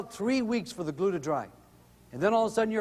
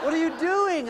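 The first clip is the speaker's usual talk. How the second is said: laughing son; 9 semitones higher, 3 dB louder than usual. Retold or imitated.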